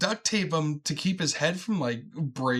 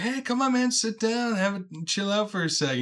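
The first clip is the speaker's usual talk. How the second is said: higher, easygoing invite; raised, laid-back welcome; friendly Saul; 6 semitones higher than usual. Retold or imitated. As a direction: coax him to sit like a chill stoner. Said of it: "he's like".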